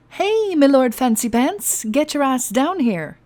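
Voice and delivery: high, slow bellowing pirate call; brash shout. Acted. A pirate captain hollering into the mansion. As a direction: yell up the stairs to wake the house. Intruder bursting in, yelling.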